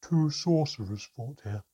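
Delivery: loud, slow bitter reply. A narrator's reading. Trapped mermaid tells how it happened, bitter. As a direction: spell it out bitterly and loudly. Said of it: "Havru replied bitterly".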